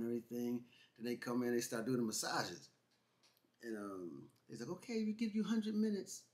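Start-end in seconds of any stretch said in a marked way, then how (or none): 4.7-6.2 lightly put-on Asian accent, higher pitched; mock Asian accent. Masseuse telling clients about their time, mock Asian accent. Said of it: "I said that like that, like that was Asian".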